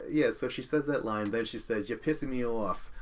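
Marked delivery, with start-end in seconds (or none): 1.9-2.9 lightly imitated Boston accent; a hint of Boston in a retold retort. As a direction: quote it with a touch of Boston accent. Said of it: "So it's Boston again".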